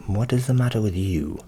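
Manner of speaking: voiced butcher amid whispered narration. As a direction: speak up as the butcher.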